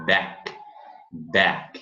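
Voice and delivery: "back" with the A as an open E. Shown as a demonstration. Teacher explains the A sound, open-E demo. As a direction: say "back" with a wide open E vowel. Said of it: "é um E aberto para o A".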